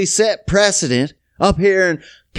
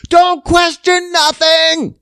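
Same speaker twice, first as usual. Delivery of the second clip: mock official; 7 semitones higher, 4 dB louder, slower than usual. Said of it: "And I'm like".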